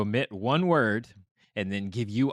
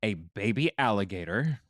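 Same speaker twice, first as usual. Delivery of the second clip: news announcer; slower than usual. Acted. Host offers players the missing word, news announcer voice. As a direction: quiz options in announcer delivery, long pauses between. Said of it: "news announcer voice".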